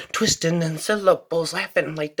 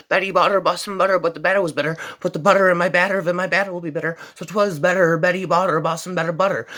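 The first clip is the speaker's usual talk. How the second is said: fast tongue twister; faster than usual. Shown as a demonstration. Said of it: "tongue twisters of the infinite speed".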